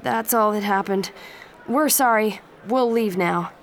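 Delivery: nervous. Acted. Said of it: "the voice said nervously".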